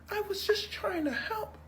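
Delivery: high, slow, whiny fake crying; fake victim. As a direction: play the wronged victim for the camera. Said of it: "instantly flips to victim".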